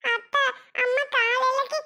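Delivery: put-on high little-child voice; questioning child. Child asking aunt if mother returns by morning, childlike. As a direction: ask in a small, high child's voice.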